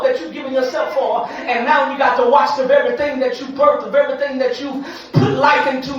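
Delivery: loud, driving pulpit cadence; impassioned preaching. Real, not acted. Preacher to grieving mothers, impassioned preaching. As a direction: hammer the repeated phrases with rising force. Preacher builds to full force.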